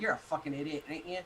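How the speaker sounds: low, mock-British accent; amateur British accent. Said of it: "I can't do the accent".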